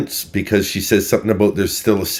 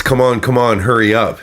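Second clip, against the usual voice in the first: urgent impression; 5 semitones higher, 4 dB louder than usual. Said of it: "now it's".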